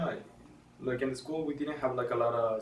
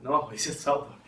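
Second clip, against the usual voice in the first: laughing correction; 3 semitones higher, 6 dB louder than usual. Real, not acted.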